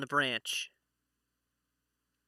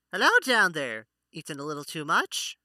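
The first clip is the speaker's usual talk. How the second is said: pixie. Acted. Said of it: "you hear a little voice from above you".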